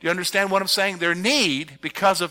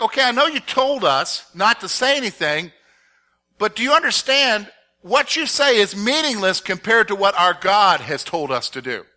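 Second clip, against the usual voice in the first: defiant retort; 4 semitones higher, 4 dB louder than usual. Acted. Peter's retort to council acted out.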